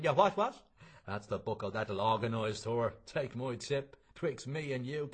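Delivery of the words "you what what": put-on high, loud, puzzled old man; deaf old man. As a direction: cup an ear and squawk it back.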